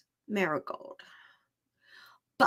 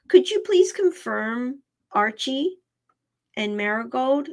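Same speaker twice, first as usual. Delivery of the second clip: whisper. Real, not acted. Pet psychic whispering a request to the animal.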